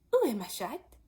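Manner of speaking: careful French lesson phrase; schoolgirl French. Acted. Alice trying French on the mouse. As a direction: say it like a textbook line. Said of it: "first sentence in her French lesson book".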